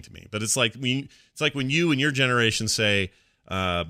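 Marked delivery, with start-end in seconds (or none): none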